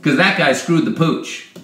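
loud, indignant comic rebuttal; mock outrage. Host mocks Trump's excuse about Obama's team, loud mock outrage. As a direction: play at being angry, voice pushed up in volume.

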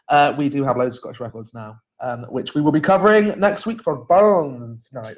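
mock Scottish lilt, done badly on purpose; bad Scottish accent. Host plugging Burns Night records in a jokey bad Scottish accent. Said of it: "That was a really bad accent".

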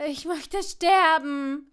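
loud, drawn-out moan; hammed-up, slow, loud wail of suffering; loud groaning. A narrator's reading. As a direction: groan it out miserably at full voice. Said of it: "stöhnte Seamus so laut".

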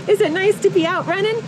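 high, sing-song pet voice; talking to a dog. Real, not acted. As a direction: coo it to the dog.

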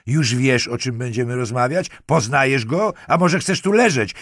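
loud, high, hammering questions; angry shout. A narrator's reading. Lieutenant threatens the girl in the morgue, shouting. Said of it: "krzyknął".

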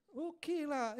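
high, bright okay lah to open the sales line; upbeat pitch. Retold or imitated. Him pitching his online business to a friend, upbeat high. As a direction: lift it like a salesman warming up.

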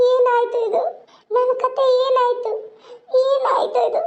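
crying despair. Acted. Woman breaks down alone.

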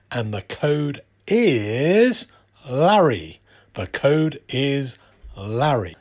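upbeat sponsor plug, spelling out the code; ad read. Acted. Presenter plugs the May discount code to viewers, upbeat ad read.

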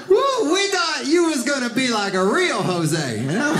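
high, incredulous "You're Jose?"; a doubtful father at the door; dad's surprised question. Retold or imitated. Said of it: "He was like".

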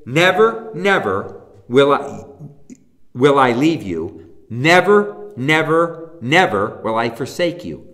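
each never leaned on, the five negatives hammered; stress on never. Shown as a demonstration. Preacher driving home five negatives. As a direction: repeat never, never, pressing every one. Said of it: "Five negatives".

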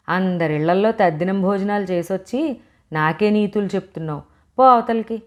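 a mother's exasperated scold, rising to a sharp go away. Acted. Mother scolds her lecturing daughter, sharp and rising. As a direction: snap at the child, building to a shout on the last words. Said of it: "అని కసిరింది".

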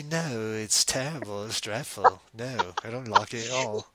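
lightly played, disapproving British judge; hint of a scornful British critic; mock British critic. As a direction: reject it in put-on British. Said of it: "the Simon Cowell".

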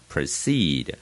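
proceed with weight on CEED; light pro, strong ceed in proceed; end stress. Shown as a demonstration. Teacher repeating the model, proceed stressed on CEED. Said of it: "重音在后面呢".

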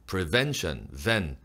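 "Prevention" stressed on "ven"; demonstrated "Prevention", accent on the middle syllable; second-syllable stress. Shown as a demonstration. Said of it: "둘째 음절에 강세가 있고요".

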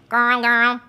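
put-on short "Girl, girl" made far back in the throat; throaty girl. Shown as a demonstration. Teacher demonstrates back-throat placement. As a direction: keep the mouth still, "girl" from back here. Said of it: "it's all gonna happen back here".

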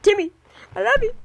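high doting voice. Real, not acted. Affection for game character.

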